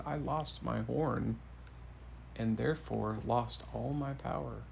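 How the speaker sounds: softly voiced, downcast king; understated royal dejection; dejected king. A narrator's reading. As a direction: let the words sink quietly, mildly glum. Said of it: "looking rather dejected".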